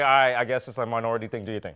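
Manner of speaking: mock executive. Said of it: "they're just like".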